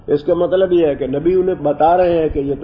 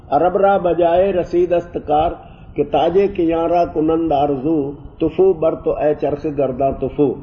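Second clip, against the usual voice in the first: poem recital. Shown as a demonstration. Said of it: "Firdausi کا شعر ہے نا".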